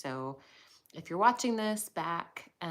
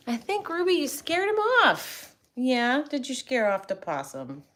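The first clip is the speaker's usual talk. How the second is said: teasing pet talk; 4 semitones higher than usual. Real, not acted. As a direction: tease the dog fondly. Teasing the dog.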